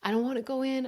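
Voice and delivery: a hint of a child pleading through tears; crying child. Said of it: "and she's crying".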